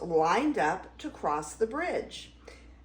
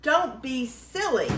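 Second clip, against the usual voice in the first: lightly cried, higher-pitched goat protest; crying out; 4 semitones higher than usual. Acted. Middle Gruff protesting to the troll, mild cry. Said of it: "cried Middle Gruff".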